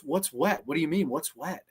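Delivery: soft, innocent questioning; puzzled deadpan. Retold or imitated. Diner survivor asked why he is dry, quietly puzzled. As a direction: play it quietly clueless.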